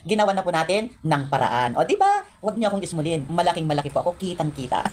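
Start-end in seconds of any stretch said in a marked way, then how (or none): 0.1-1.7 laughing. Real, not acted. Vlogger gloating to viewers, slow words while laughing. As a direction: giggle and keep talking slowly.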